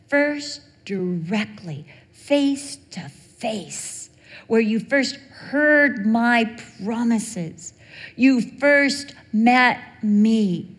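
slow, weighty words of God. Acted. Preacher voicing God to Jacob, slow and weighty. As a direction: draw it out like God speaking.

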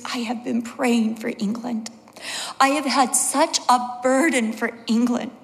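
imitating a tearful confession, fading to a hush; tearful mom. Crying mom confessing her burden for England, tearful. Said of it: "she's crying really hard".

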